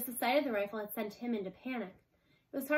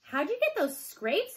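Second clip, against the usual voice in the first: put-on child's voice; 8 semitones higher, 5 dB louder, slower than usual. A narrator's reading. Child voice in story.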